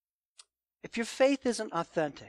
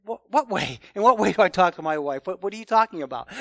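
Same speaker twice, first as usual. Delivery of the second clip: defensive surprise; 4 dB louder than usual. Retold or imitated. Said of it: "You're almost surprised and, and push back".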